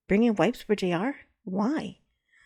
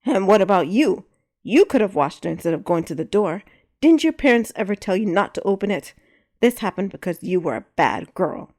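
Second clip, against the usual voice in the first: angry scolding; 5 dB louder than usual. Acted. J R scolding child.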